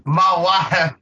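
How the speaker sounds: lightly voiced Blanche-like Southern lady; hammed-up Southern accent. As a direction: imitate a bad Southern belle accent, lightly. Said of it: "put on this fucking, like, horrible Southern accent".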